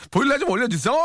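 high-pitched, comically overdone plea; funny exaggerated tone. Shown as a demonstration. Host shows how tone makes the text funny, high exaggerated plea. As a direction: pitch it way up and play it for laughs. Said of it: "톤을 어떻게 하느냐에 따라서".

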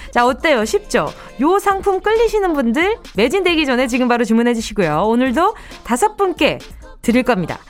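upbeat home shopping pitch; hard sell ad. Acted. Radio shopping segment ad read.

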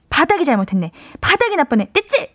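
a light mock parent consoling a child; imitating a soothing parent. (넘어진 아이를 달래는 부모 흉내)

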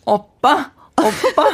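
high, coy call to husband; cute pleading. Shown as a demonstration. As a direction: whine it sweetly, rising. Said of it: "남편분께 가면". (남편에게 애교 부리듯)

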